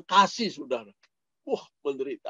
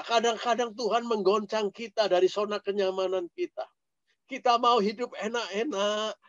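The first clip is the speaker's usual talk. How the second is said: ordinary talk, nothing marked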